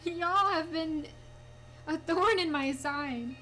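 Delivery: loud, slow, fed-up complaint; slow annoyed grumble. Real, not acted. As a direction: drag it out, exasperated. Annoyed at pesky Shinx.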